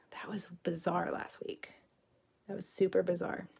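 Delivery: hushed aside; quiet whispered comment. Real, not acted. Aside about last week's glitch.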